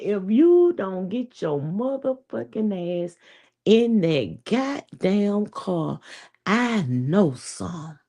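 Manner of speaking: drawn-out, deliberate scolding; slow mock threat. Man scolding his wife into the car, slow mock threat. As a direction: spell it out slowly like a warning. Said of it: "He said".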